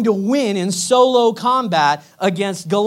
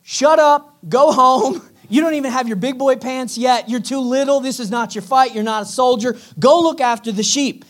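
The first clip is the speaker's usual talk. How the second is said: loud, high, mocking older brothers; scornful brothers; 5 semitones higher, 4 dB louder than usual. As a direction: brush off the little brother loudly. His brothers are like.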